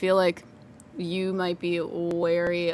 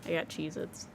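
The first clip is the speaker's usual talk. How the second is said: crunching chips; 3 semitones lower, 10 dB quieter than usual. Real, not acted. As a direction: mouth full of chips. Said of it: "you can hear me crunching".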